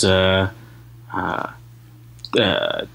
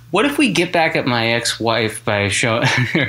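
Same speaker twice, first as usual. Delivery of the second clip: sleazy Hollywood producer. Pretend. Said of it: "sleazy Hollywood producer voice".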